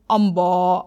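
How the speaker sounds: low imitated calf call; storyteller's mock moo; calf's moo. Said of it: "అని అరవమంది".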